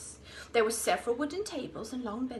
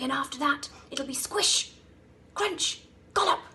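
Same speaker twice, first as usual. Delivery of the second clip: gleeful; 3 semitones higher, 6 dB louder than usual. A narrator's reading. Crocodile relishing eating children.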